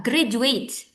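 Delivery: "graduate" said slowly, stress on GRAD; slow model of "graduate"; model pronunciation. Shown as a demonstration. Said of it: "repeat after me".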